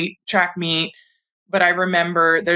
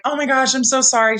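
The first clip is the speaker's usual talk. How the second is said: mock crying; 8 semitones higher, faster than usual.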